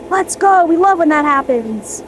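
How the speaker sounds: excited cheer. Real, not acted. Celebrating cleared clog.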